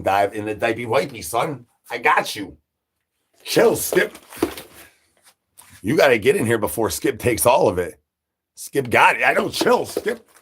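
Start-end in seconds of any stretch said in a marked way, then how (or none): 3.4-4.2 high, sharp "Chill, Skip"; scolding. Real, not acted. Streamer scolding wound-up Skip, high call. 9.2-10.3 high squeaky mock reply. Streamer answering as Skip in a squeaky voice.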